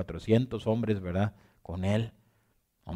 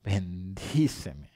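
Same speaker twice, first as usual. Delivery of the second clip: slow, softer, lower begging; pleading softly; 4 semitones lower, 5 dB quieter, much slower than usual. Pretend. Jacob begs the wrestling man, slow and soft. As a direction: beg for the blessing quietly. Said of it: "Jacob se puso a llorar y a rogar".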